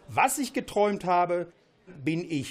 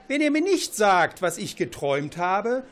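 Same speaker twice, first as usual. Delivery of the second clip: angry threat. Acted. King threatens wise men.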